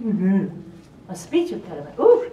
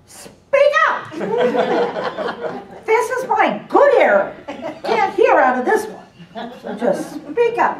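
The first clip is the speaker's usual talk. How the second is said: higher, louder and slow, through laughs; imitating Dorothy; 9 semitones higher, 6 dB louder, slower than usual. Dorothy telling the attorneys loudly to speak up, laughing. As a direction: command them like a half-deaf boss. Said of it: "And she said to the, to the people".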